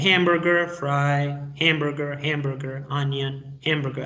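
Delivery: "hamburger" with English "ham" vowel, word by word; teacher's careful word-list demo of "hamburger"; modeled pronunciation. Shown as a demonstration. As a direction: model each word, "hamburger" as "HEM-ber-ger". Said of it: "Revisen la pronunciación".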